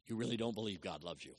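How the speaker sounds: said low and soft, "really" leaned on; a hushed first telling; quiet. Shown as a demonstration. Preacher quietly confronts listeners with their unbelief. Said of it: "repeated for weight".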